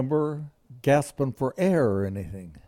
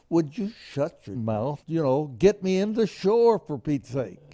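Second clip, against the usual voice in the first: retold yell; 5 semitones higher than usual. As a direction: bark it like you're half drowned and fed up. Snapping at crying rescuer.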